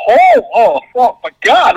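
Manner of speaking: high, excited mock gasp. Reliving the theater moment for Mitch, excited. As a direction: gush like a fan losing it. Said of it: "you're just like".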